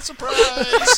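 surprise shout. Pretend. Jack-in-the-box joke exclamation.

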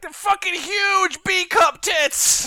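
high, slow, squealing exaggeration; mock excited gushing. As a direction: gush over them like it's huge. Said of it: "you live in a world where you're like".

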